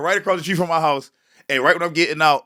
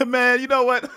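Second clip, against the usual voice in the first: lenient cop; 3 semitones higher than usual. Retold or imitated. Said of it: "my excuse every time would be".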